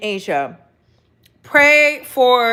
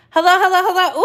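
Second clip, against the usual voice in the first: high, bright hello hello; excited greeting; 8 semitones higher, 4 dB louder, much faster than usual. Real, not acted. Host greeting live viewers, excited high hello. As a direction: sing out hello to the chat.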